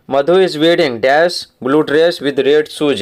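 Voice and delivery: very slow, word by word, like reading to a class; slow dictation reading. Shown as a demonstration. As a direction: read it out slowly so pupils can follow. Teacher reads exercise sentence aloud.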